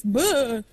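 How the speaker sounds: imitated "bleh" cartoon grunt; short blurted cartoon-dad noise; Hank Hill bleh. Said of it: "Hank Hill makes".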